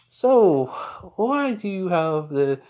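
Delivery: high, drawn-out question; acted-out pointed demand. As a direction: start loud and high, stretching the words. Pointed question about the kids.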